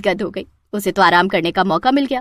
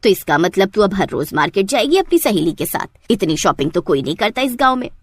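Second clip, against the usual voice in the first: put-on an older village matriarch giving orders; mother-in-law; 3 semitones lower than usual. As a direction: lower bossy mother-in-law voice. Mother-in-law voiced by narrator.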